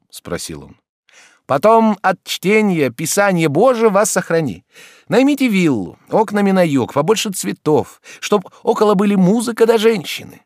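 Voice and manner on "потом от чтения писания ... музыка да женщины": higher, louder doctor advising brightly; raised voice of a doctor giving advice; doctor's voice. Acted. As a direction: play the chatty society doctor.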